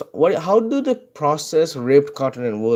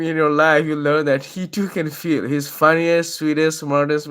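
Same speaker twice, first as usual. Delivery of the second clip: reading aloud; 2 semitones higher than usual. Shown as a demonstration. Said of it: "this is what Urban Dictionary says".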